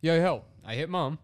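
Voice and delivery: understated cry for help, no exclamation; not urgent. Retold or imitated. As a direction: read the plea without urgency. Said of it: "It didn't seem that urgent".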